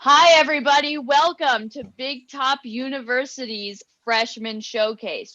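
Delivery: announcer greeting. Acted. Host opening a showcase.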